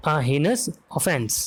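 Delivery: heinous offense said very slowly, word by word; slow and clear. Shown as a demonstration. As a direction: stretch out heinous offense for students to copy. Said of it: "अब sentence में ऐसे कर सकते हैं". (धीरे-धीरे साफ़ बोला गया heinous offense)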